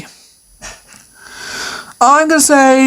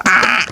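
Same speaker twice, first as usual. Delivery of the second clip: a short croaky caw; playful crow cry; crow noise; 4 semitones lower than usual. Shown as a demonstration. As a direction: squawk once like a crow. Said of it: "make a crow noise like this".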